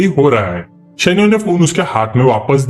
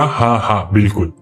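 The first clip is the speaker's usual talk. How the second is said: low, softer, reluctant yes; awkward agreement; 6 semitones lower, 3 dB quieter than usual. A narrator's reading. Roommate forcing himself to agree with the lovestruck friend, awkward. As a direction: agree awkwardly through a forced smile. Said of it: "awkward सा smile करके बोला".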